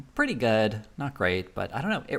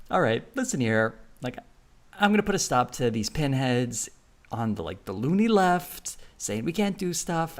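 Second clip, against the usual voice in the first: blustery TV pundit, pitched up and pushed louder; Bill O'Reilly impression; 4 semitones higher, 4 dB louder than usual. Mocking the host's on-air bluster. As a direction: lecture the pinheads like a cable blowhard. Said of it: "this is just my normal voice".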